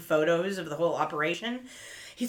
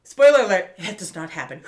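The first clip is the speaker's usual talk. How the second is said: normal talking voice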